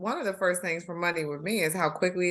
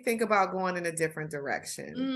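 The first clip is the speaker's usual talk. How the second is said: auntie voice; 5 semitones higher, 3 dB quieter than usual. Pretend. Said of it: "Your auntie voice is like".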